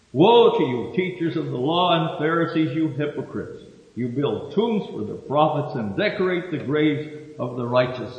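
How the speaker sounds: preacher proclaiming judgment; declaiming scripture. Acted. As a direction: thunder the woes at the Pharisees. Quotes verse twenty-seven onward.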